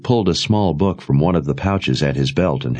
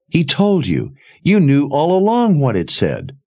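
put-on a higher, urgent young woman's voice; lightly voiced young woman; 7 semitones higher than usual. A narrator's reading. Jensen accusing Sebastian, in a higher urgent voice. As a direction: lift the pitch for the accusing girl.

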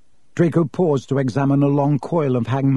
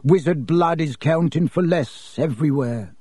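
oily voice; 2 semitones higher than usual. Acted. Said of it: "in his oily voice".

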